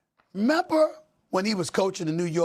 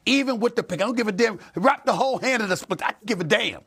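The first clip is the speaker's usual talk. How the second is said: high, emphatic exasperation; heated and insistent; worked-up rant; 5 semitones higher, faster than usual. Real, not acted. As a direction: rant with raised pitch, brushing excuses aside. Worked-up rant about pinky injury.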